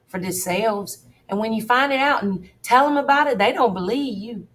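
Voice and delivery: Jim, scared of the witches, pleading; a nervous man pouring out his fears; frightened Jim. Acted. Jim begging the boys to keep his witch secret.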